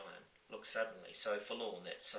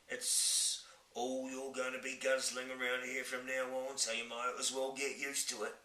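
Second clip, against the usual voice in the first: giant voice; 4 semitones higher than usual. Acted. Giant insists.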